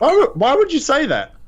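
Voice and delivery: high, laughing question; laughing disbelief. Real, not acted. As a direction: laugh through it.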